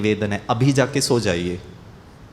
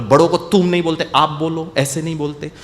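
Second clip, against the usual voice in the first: mother scolding; 2 semitones higher than usual. Retold or imitated. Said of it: "बोला".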